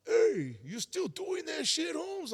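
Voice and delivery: hammed-up high homie call; friend calling out. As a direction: call across the room to tease him. Friend voiced calling across room.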